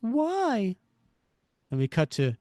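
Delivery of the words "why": high, drawn-out plaintive woman's voice; Betty Chekhov. Acted. Woman questions her partner in crime, plaintive. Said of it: "Betty Chekhov saying why".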